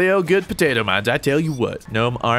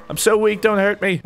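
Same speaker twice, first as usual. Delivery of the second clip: higher, whiny pretend plea; hammed-up helpless whimper; mock pleading; 7 semitones higher than usual. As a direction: beg as a fake weakling. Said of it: "I'm just kidding".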